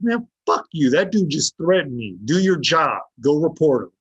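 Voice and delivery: retold indignant demand to a cop; retold angry protest. Inmate tells cop to do his job, indignant. Retells angry outburst at officers.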